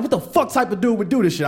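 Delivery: indignant comic disbelief; mad. Retold or imitated. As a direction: fume about the guy. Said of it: "I was mad".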